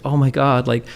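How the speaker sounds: high-pitched, hammed-up teary apology; mock crying. The speaker mimicking Melina crying on the phone, mock tearful and high. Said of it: "She's, like, crying".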